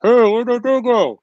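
high-pitched mock holler across a room; mock shout. Shown as a demonstration. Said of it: "it would sound like this".

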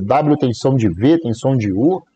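V and U drawn out with a rise; slow explaining. Shown as a demonstration. Explaining to viewers that the letter W sounds like V or U. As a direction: stretch out V and U slowly. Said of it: "É a foda do nosso português".

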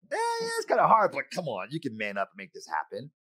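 brushing off a friend's trouble; dismissive scoff. Retold or imitated. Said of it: "walk a mile in your shoes and be like".

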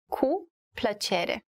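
"Cu", a pause, then "plăcere"; slow teaching model, split after "Cu"; slow word-by-word. Shown as a demonstration. Teacher breaks up the phrase for learners, slow and separated.

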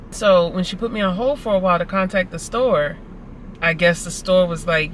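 normal talking voice

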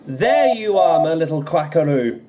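light up at finding her; beaming. Acted. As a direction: Donald finding his lost duck, beaming. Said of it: "Donald beamed".

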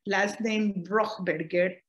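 slow letter-by-letter spelling. Real, not acted. Spelling the name for the interviewer, slow and careful. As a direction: spell each letter slowly and clearly. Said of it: "Spell it".

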